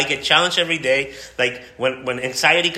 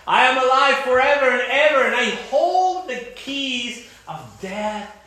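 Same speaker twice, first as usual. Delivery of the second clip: triumphant proclamation; 10 semitones higher than usual. Acted. Voicing the risen Christ.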